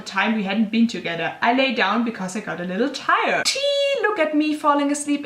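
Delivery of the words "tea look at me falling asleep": squealed tea. Real, not acted. Gossipy reaction to own story.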